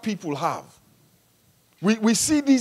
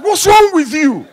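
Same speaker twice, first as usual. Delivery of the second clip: slower, higher, louder, exasperated voice of God; 8 semitones higher, 8 dB louder than usual. Retold or imitated. Preacher voices God scolding the jealous driver, exasperated. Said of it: "And God is like".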